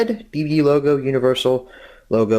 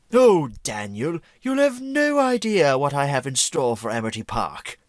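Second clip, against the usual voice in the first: Vlad Plasmius voice. Acted. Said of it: "Am I doing a Vlad Plasmius impression".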